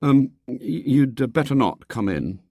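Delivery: put-on faltering, hesitant boy; falter, with little hope; faint. A narrator's reading. William warns his companion at the gate, mildly faint. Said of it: "he said faintly to his companion".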